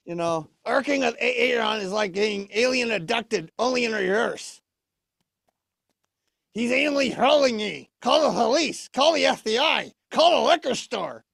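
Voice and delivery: a touch of puppet alarm; lightly voiced puppet Orb. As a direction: play a grumbling puppet calling for help. Puppet character does his own bit.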